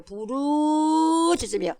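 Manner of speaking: long, high drawn-out cry on 부르. Acted. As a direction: stretch it out like a call from afar. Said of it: "뭐라 그래요?". (길게 빼며 부르짖는 소리)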